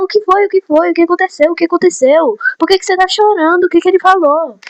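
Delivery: imitating classmates pestering the crying girl with worried questions; anxious crowd. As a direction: play the nosy classmates all asking at once.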